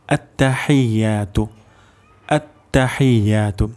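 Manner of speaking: আত্তাহিয়াতু slowly, long ya; careful recitation. Shown as a demonstration. Teacher models the first word for learners, careful recitation. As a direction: draw out আত্তাহিয়াতু syllable by syllable. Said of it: "সহিহ উচ্চারণ শিখব".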